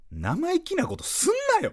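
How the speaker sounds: hammed-up senpai telling off the newbies; bossy senpai. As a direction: play a cocky upperclassman scolding first-years. Senpai barking at first-years.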